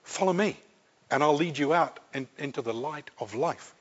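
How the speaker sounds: soft, gentle invitation; hushed, drawing someone out of darkness; light of the world. Acted. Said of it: "the light of the world was to say to you".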